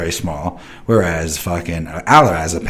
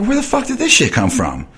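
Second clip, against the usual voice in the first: retold demand; 11 semitones higher than usual. Confronting son over purchases.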